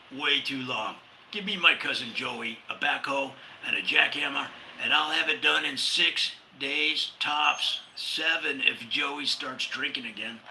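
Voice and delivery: put-on tough New Yorker with a light New York accent. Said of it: "that was my New York accent".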